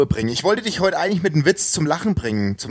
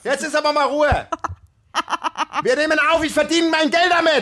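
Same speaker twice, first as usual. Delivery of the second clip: mock scolding; 10 semitones higher than usual. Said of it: "Sag mal, könnt ihr mal".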